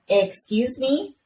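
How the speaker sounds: high, slow, stunned disbelief; a mom caught off guard, drawn out; mock outraged "excuse me"; shocked "excuse me". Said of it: "And I go".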